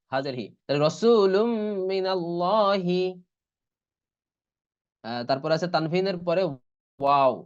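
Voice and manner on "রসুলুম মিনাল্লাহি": slow Quranic recitation of রসুলুম মিনাল্লাহি; idgham recitation. Shown as a demonstration. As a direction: hold the nasal m between রসুলুম and মিনাল্লাহি. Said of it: "এই জন্য এরকম পড়া হচ্ছে".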